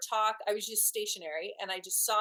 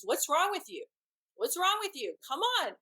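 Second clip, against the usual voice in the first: freaking out; 8 semitones higher than usual. Retold or imitated. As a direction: play him frantic about missing the train. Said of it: "he freaked out".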